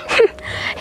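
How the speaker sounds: short breathy mocking laugh; a scornful little laugh. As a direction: laugh off her boast with scorn. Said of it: "ngapain sih kamu ngetawain aku".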